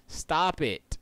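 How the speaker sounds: sharp yell to stop; loud yell. Real, not acted. Streamer yelling at someone in the room to stop. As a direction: shout it at them.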